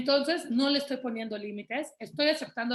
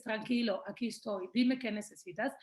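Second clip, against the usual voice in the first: put-on softer, gentle words to soothe a child; calm reassurance; 4 dB quieter than usual. Shown as a demonstration. Mother hugging her upset son, softly soothing him. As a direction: settle the little one down softly. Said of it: "le dices".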